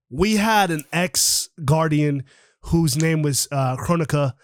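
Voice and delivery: choppy broken-up audio; cutting out. Real, not acted. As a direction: voice breaking up on the call. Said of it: "you're cutting out a little bit".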